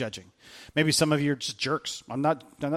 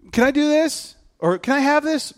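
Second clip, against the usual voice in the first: mock begging kid; 10 semitones higher, 4 dB louder than usual. Kids begging parents.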